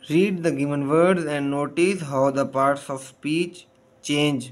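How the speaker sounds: slow reading. Shown as a demonstration. Teacher reads instruction slowly.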